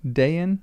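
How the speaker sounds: Dayan as DAY-an, stressed on the first syllable; accent on the A. Shown as a demonstration. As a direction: lift and lengthen the A in Dayan. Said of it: "the accent's on the A".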